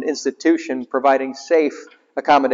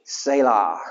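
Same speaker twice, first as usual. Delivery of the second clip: hushed selah; 6 semitones lower, 6 dB quieter than usual. Acted. Repeated pause word.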